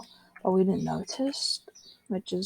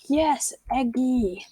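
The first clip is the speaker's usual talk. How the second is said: goal celebration; 5 semitones higher, much slower than usual. Acted.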